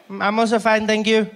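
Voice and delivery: put-on nine-year-old reciting phone manners; Isaac. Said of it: "He's nine years old".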